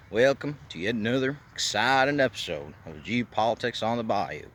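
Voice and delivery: half-hearted mock Cajun accent. Vlogger opens the show in a half-hearted Cajun accent. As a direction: try a light Louisiana bayou accent on the welcome. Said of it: "try and do this accent".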